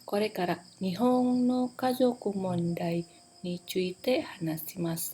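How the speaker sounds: slow, with a pause after "mondai"; measured slow presentation opening; pause before key phrase. Shown as a demonstration. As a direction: say "Kore kara Nihon no kazoku mondai" slowly, then pause. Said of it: "ada pause dulu".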